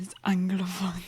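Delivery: anglophone whispered under the breath; mock hushed aside. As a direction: breathe it like a secret.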